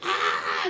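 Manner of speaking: short mock scream; imitated scream. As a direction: imitate a woman screaming from the back seat.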